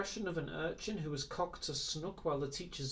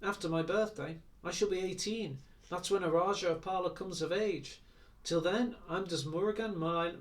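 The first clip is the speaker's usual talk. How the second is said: contemptuous; 4 semitones higher than usual. Acted. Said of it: "he added contemptuously".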